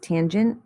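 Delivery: tangent said TAN-junt; pronunciation of tangent. Shown as a demonstration. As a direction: say tangent carefully, rising at the end. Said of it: "This one is pronounced".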